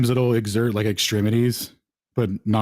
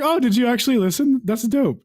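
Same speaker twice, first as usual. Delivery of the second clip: mock impressed; 12 semitones higher than usual. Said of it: "I was like".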